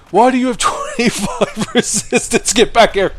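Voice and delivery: high, lightly comic Oscar voice. Retold or imitated. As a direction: play Oscar squeaky and indignant. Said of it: "He's like".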